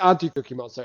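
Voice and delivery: retold cooing. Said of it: "he says his name".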